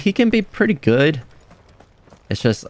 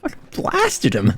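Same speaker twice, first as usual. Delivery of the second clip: much higher, slow "I blasted him" through laughter; laughing high. Real, not acted. Gamer laughing at Jill's blast, wheezing high through giggles.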